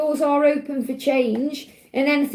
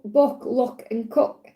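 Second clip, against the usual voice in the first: book, look and cook said slowly with the Stoke oo vowel; slow, deliberate Stoke accent demo of book, look and cook; slower than usual. Shown as a demonstration. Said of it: "it's our Stoke accent".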